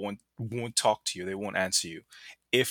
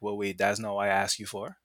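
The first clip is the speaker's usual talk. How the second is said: lightly imitated Grenadian accent. Customer objects to the wrong drink, mild Grenadian accent. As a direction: have a go at Grenadian speech. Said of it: "That's my terrible Grenadian accent".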